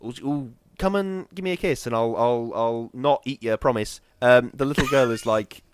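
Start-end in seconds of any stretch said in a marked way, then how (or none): 0.0-4.0 vampire mother luring men, mock-seductive. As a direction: lure him in with a coo. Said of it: "using her sort of".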